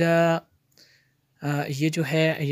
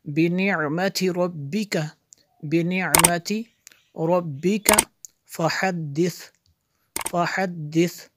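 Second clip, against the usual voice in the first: measured, resonant teaching recitation; word-by-word recitation; 4 semitones higher, 6 dB louder, slower than usual. Shown as a demonstration. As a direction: chant each word separately with held vowels. (एक-एक लफ़्ज़ लय में पढ़ना)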